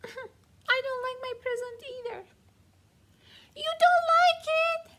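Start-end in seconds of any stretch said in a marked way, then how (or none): 3.6-4.9 high, loud disbelieving question; can't believe it; stunned squeak of disbelief; shocked. Acted. Dog shocked gift is disliked.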